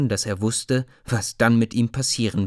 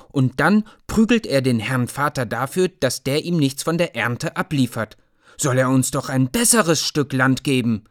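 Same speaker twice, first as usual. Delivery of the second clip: put-on higher, louder indignant boy's rant; angry child's tirade, raised and loud; 5 semitones higher, 4 dB louder than usual. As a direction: rage at the unfairness of it. Boy rages at the knight.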